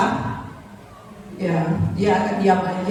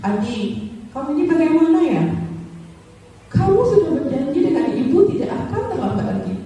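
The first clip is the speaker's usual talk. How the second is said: complaining, guilt-tripping teacher voice; disappointed teacher; 5 semitones higher than usual. Acted. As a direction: lay the guilt on the student. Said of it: "Dia akan ngomong gini". (guru kecewa yang mengeluh)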